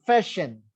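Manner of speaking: Fashion with its first syllable stressed; Fashion, weight before the final "shion"; stress on second-last syllable. Shown as a demonstration. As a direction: lean on FA in Fashion. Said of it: "penultimate syllable should be stressed".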